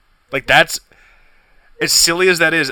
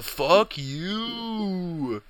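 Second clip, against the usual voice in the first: softer, bitter drawn-out curse; the same fan turned sour; mock fury; 5 semitones higher, 7 dB quieter than usual.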